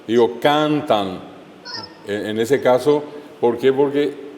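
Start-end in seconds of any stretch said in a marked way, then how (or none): 0.4-1.2 cantan with a slow, weighted CAN; stress on first syllable. Shown as a demonstration. Teacher giving examples of llanas, stressed CAN in cantan. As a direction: lean hard on the CAN of cantan. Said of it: "Cargo la voz".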